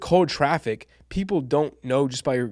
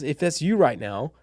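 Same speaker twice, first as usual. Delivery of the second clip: warm and inviting. Shown as a demonstration. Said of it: "that sounds warm and, and inviting".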